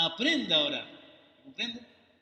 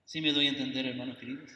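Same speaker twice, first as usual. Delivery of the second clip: softer, moved preacher's voice; words held back by real emotion; emotional; 6 semitones lower, 5 dB quieter than usual. Real, not acted. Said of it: "Perdón si me emociono". (con emoción contenida, más suave)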